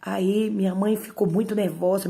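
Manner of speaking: ordinary talk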